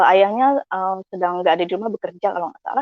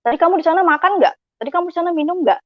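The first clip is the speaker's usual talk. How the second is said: higher-pitched probing questions; parental questioning; 8 semitones higher, faster than usual. Retold or imitated. Parent quizzing child back from friend's house, probing. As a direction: imitate a parent checking up.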